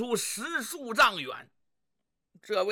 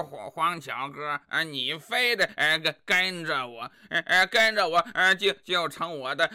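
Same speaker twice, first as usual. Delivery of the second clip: low, halting, full of er-er; stammering dullard husband; 3 semitones lower than usual. Acted. Husband making excuses to his wife, low halting stammer.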